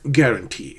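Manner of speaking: "guarantee" with TEE strong; end-stressed "guarantee"; last-syllable stress. Shown as a demonstration. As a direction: hold back until TEE in "guarantee". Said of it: "is the last".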